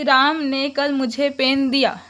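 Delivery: राम ने कल मुझे पेन दिया read slowly with राम falling; slow example sentence. Shown as a demonstration. Teacher reading the example to students, slowly. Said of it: "ये एक line है".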